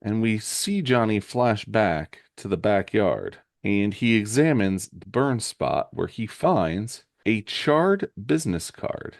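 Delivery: slow, deliberate storytelling; comic-book narration. A narrator's reading. Recapping the flashback to the backyard for Shane, dramatic narration. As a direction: read the comic out slowly, with drama.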